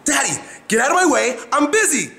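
high mock shout of a busy five-year-old, laughing at the end; daughter's busy shout. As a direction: play the giggling girl yelling daddy off. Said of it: "and she's".

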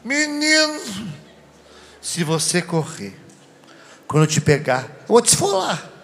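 hammed-up yell of a mother about to punish; mother's threat. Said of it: "e falando".

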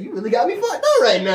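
laughing imitation of a viral line; amused mimicry of a video; imitated video clip. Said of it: "You know that video said".

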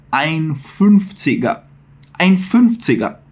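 "Fünfziger" said slowly, every sound clear; slow careful "Fünfziger"; slow pronunciation. Shown as a demonstration. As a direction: spell out "ein Fünfziger" slowly. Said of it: "ginástica na boca".

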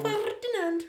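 Ferdinand again with a rolled R. Shown as a demonstration. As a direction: roll the R hard in Ferdinand. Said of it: "Say it again".

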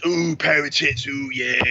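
lightly voiced lecherous ooh; mock leering bloke. Mocking crude men for his co-host: light leering ooh. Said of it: "it's not just".

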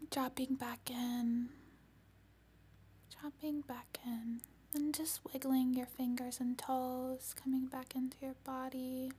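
gently ground them back; warm serene goddess voice. Acted. Closing guidance.

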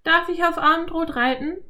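put-on very high, pleading girl; girl begging to come; begging Anne. A narrator's reading. (bettelndes Mädchen)

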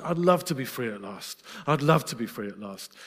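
a mild, longing wish, not a claim; half-sigh it like a faraway hope; wistful wishing. Shown as a demonstration. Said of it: "The song wasn't / It was declaring".

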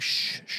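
breathy shush shush; sharp shushing. Retold or imitated. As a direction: hush us like a friend in the basement. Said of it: "he'll be like".

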